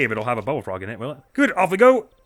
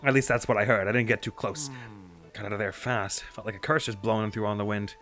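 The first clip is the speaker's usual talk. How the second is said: chirpy newsman eager for a scoop; cheerful reporter voice; 3 semitones higher than usual. Acted. Voices Penn dialogue.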